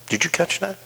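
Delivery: ordinary talk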